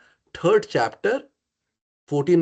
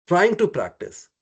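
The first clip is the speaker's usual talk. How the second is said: "trying" raised at the start, then falling; stress on trying; 2 semitones higher than usual. Real, not acted. Teacher correcting "practicing" for the students, stress on "trying". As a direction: lean on "trying", unhurried and slowing. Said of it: "emphasizing the word trying".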